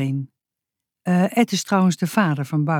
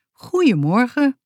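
higher, singsong friendly greeting; mildly sweet, pitched-up good morning; 7 semitones higher than usual. A narrator's reading. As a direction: greet them pleasantly. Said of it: "zei hij vriendelijk".

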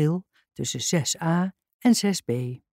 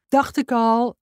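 higher, mildly called-out remark; calling out; 5 semitones higher, 3 dB louder than usual. A narrator's reading. Jackie calling out while bouncing on her ball, mild shout. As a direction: toss it out as a light call. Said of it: "riep Jackie".

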